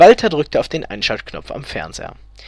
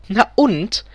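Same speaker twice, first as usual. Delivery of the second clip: high-pitched, hysterical echo; 7 semitones higher than usual. A narrator's reading. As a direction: throw "Na und?" back hysterically high. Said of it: "fragte Elfriede hysterisch".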